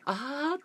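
high mock bot "あー"; imitating bot's laugh. Streamer mimicking the updated bot voice to chat, high mock cry. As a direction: squeak out the bot's eerie sound. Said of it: "超生々しいよね".

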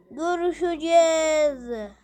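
stretched menacing repeat; slow it down like a departing villain. Acted. Robot villain promising to return, slow and menacing.

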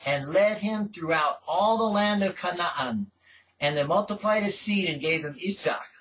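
English scripture read in a light Hebrew accent; solemn scripture reading in a mild Hebrew accent. Shown as a demonstration. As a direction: roll the names like Yaakov in a Hebrew accent. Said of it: "I'm using the English to speak in a Hebrew accent".

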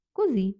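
козі stressed on the final syllable, І. Shown as a demonstration. Teacher modelling the word's stress, weight on final І. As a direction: land firmly on the І ending козі. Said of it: "Наголос на І".

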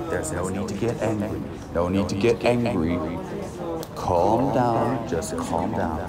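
mock soothing. Soothing himself out of anger.

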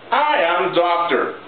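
slow, deliberate demo of the wrong sentence; slow wrong example. Shown as a demonstration. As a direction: say each word slowly, as a mistake to correct. (ejemplo incorrecto dicho despacio)

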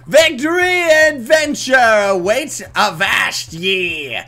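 lightly voiced pirate, slow avast; a hint of a pirate captain. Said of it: "I'm still doing the pirate voice".

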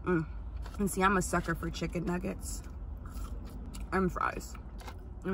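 talking while chewing food; muffled behind hand over mouth; mouth full, chewing. Real, not acted. Seen 2: bites nugget at -3, then talks with hand covering chewing mouth.

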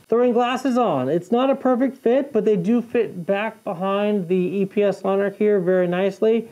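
muffled by chin bar; speaking inside a helmet. Real, not acted. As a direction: voice through helmet padding. Seen 0: Full-face helmet worn throughout, chin bar covering mouth; visor open.

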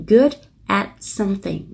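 slow demo of good at something, with good linked straight into at; careful teacher model of good at something; linked pronunciation. Shown as a demonstration. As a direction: say good at something slowly, joined. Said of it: "phần nối âm của nó".

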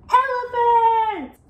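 high, loud, drawn-out pounce; spring the threat on the listener; sudden slow, gleeful roar of menace; dangerous crocodile. A narrator's reading. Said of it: "Crocodile smiled a dangerous smile".

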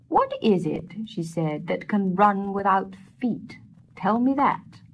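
lightly voiced old woman posing a riddle, slow; a hint of a sly crone testing him; wise woman voice. Wise woman asking Peter the riddle, lightly voiced and slow.

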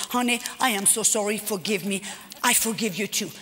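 hushed, low apology to a sleeping husband; wife quietly apologizing at night; soft apology. Retold or imitated. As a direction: say sorry gently, not to wake him.

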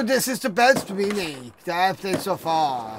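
soft unvoiced whisper. Real, not acted. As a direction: whisper it like a secret. Whispered aside.

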